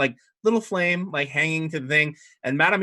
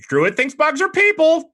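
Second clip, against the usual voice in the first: very high loud squawk with the stress on "are"; squawking bird; 9 dB louder than usual. Acted. Baby phoenix squawks at the druid, stress on "are". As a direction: screech it out, leaning on "are". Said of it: "and it goes".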